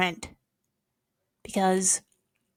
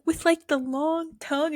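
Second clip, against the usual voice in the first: high mock question; 8 semitones higher than usual. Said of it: "And I was like".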